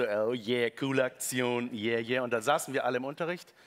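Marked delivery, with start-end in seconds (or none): 0.0-2.2 smug. Retold or imitated. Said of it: "ich war am nächsten Tag so".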